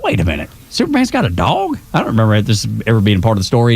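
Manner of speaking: jumps way up on the dog question, then rattles off fast; retelling his own disbelief, hammed up a bit; imitating own surprise. Host retelling to co-host his shock at Superman's dog, mock surprised. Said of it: "I was like".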